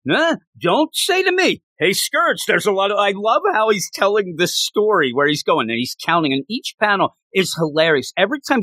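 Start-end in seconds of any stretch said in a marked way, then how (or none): 0.1-3.0 lightly voiced angry Scourge, slowed down; imitating Scourge. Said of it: "And then he be".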